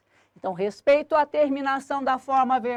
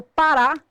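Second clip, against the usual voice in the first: "parar" with the last syllable punched louder; final-syllable stress; 3 semitones higher, 5 dB louder than usual. Shown as a demonstration. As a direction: lean hard on the final "ra" of "parar". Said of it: "a sílaba tônica é o ra".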